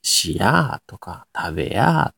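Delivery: slow Nagoya dialect examples; 名古屋弁. Shown as a demonstration. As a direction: stretch the endings in Nagoya intonation. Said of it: "三つ目が上がるって話で". (名古屋弁でゆっくり語尾を伸ばす)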